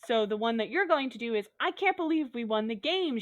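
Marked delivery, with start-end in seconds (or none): 1.6-3.2 higher-pitched, mildly excited exclamation; a toned-down scream of victory; mock excited scream. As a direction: pretend to scream it, without full volume. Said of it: "she screamed".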